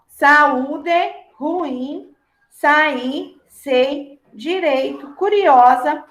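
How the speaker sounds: países e país read out slowly and evenly; países e país, spaced out word by word; slow dictation. Shown as a demonstration. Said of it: "separá-las em sílaba".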